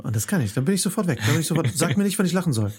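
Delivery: high-pitched, indignant rant; worked-up rant. Real, not acted. Ranting about canned laughter.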